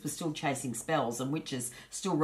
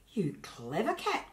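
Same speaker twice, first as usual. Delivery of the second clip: delighted; 4 semitones higher, slower than usual. Acted. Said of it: "cried Hugh with delight".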